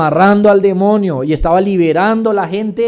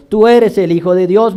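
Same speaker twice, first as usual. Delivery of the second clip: crying out; 4 semitones higher, 6 dB louder than usual. Acted. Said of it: "daban voces diciendo".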